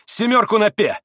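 loud, high gambler's call; calling a bet. A narrator's reading. Mitya doubling on a seven, loud call. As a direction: throw the bet out forcefully.

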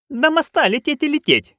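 high-pitched complaint; narrated grumble. A narrator's reading. Nanny complaining of the distance to the bridge, grumbling. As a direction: grumble in a high old-witch voice. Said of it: "буркнула она".

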